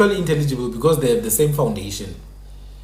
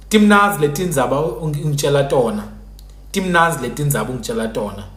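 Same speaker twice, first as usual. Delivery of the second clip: Swati-style sample sentence; Swati pronunciation. Shown as a demonstration. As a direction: demonstrate how a Swati speaker sounds. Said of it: "That's how a Swati person would sound".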